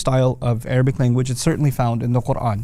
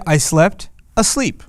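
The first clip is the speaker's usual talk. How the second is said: slow demo; 3 semitones higher, slower than usual. Shown as a demonstration. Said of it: "They'll say".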